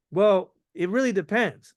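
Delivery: calm, evasive shrug of a reply; don't take the bait; noncommittal. Shown as a demonstration. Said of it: "I'm not taking the bait yet".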